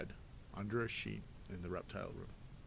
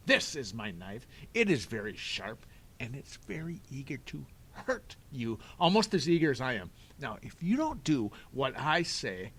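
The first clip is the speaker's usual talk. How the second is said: louder, higher threatening villain voice, ending in a loud order; menacing villain; 3 semitones higher, 8 dB louder than usual. Acted. Stefano threatening the children with his knife.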